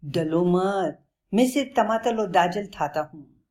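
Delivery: lightly voiced lion with a childish lisp; a friendly lion lisping through a chuckle; laughing lisping lion. Lion reassures scared Bablu, lisping with a light laugh. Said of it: "शेर हंसते हुए बोलता है".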